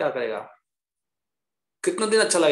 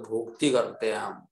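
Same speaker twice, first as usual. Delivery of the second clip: put-on Bengali accent, lower; bengali accent in hindi; 7 semitones lower, 4 dB quieter than usual. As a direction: Bengali babu's rounded भोक्ति. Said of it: "Bengali बाबू बोलते हैं".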